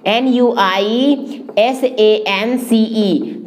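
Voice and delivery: slow letter-by-letter dictation; spelling out. Shown as a demonstration. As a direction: spell it out slowly for the class. Spelling out a word for learners. (धीरे-धीरे एक-एक अक्षर बोलते हुए)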